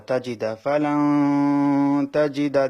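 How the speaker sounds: slow chanted ফালান তাজিদা; measured tajweed chant; Quran recitation. Shown as a demonstration. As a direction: recite it with the nun hidden. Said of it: "নুন সাকিনটা গুণনা করতে হবে".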